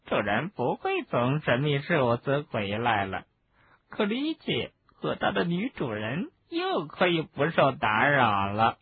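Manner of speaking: gleeful house-elf. Acted. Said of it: "他高兴地说".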